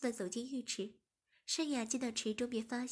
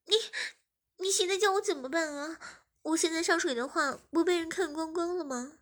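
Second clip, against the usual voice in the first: put-on panicked young woman, higher and louder; high, loud flustered girl; 5 semitones higher, 4 dB louder than usual. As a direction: plead in a fluster. Voices 诗雅 near tears. (慌张的少女声)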